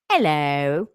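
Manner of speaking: loud meowed hello, swooping back up; talking-cat meow. Retold or imitated. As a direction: mimic the cat's word-like meow. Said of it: "That's exactly what it freaking sounds like".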